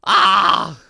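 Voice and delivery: loud high shriek of surprise; shriek, caught off guard; startled yell. Real, not acted. Gamer jolted by the screen, startled shriek.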